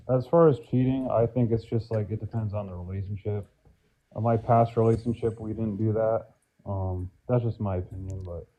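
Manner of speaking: muffled, mic covered; finger over the mic. Real, not acted. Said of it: "it sounds like you're covering your mic".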